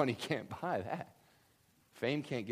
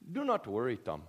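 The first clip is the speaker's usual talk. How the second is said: put-on lightly botched Bangladeshi accent, sounding oddly Irish; attempted Bangladeshi accent. Preacher imitating Bengali pastor, attempted Bangladeshi accent. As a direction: try a Bangladeshi accent and miss. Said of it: "I meant to do a Bangladeshi accent".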